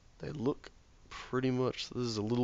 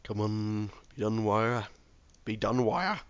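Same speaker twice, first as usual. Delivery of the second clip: each "Be done wire" rising and louder; impatient urging; 3 dB louder than usual. Real, not acted. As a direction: plead with the machine, building up. Urging the machine to finish.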